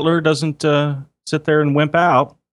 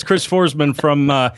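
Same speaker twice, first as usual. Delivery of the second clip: put-on Chicago accent; 5 semitones higher than usual. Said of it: "That's not a Chicago accent".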